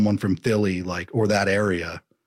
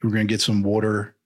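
put-on Philly accent. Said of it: "slip into a Philly accent".

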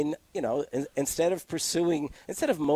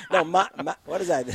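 laughing; 4 semitones higher, 5 dB louder, faster than usual. Real, not acted. Laughing at the Waga joke.

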